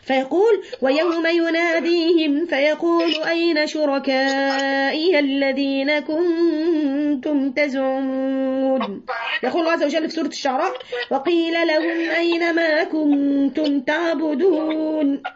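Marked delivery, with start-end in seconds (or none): 0.8-9.1 slow drawn-out chant of أين شركائي; unhurried Quranic cantillation; Quran recitation. Acted. 11.1-15.2 slow drawn-out chant of أين شركائي; unhurried Quranic cantillation; Quran recitation. Acted.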